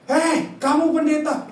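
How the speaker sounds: high-pitched scolding call, imitated; wife's shout. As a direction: call out sharply as the alarmed wife. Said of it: "istri saya langsung teriak".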